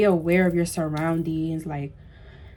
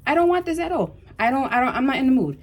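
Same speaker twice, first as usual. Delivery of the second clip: retold refusal; 5 semitones higher, faster than usual.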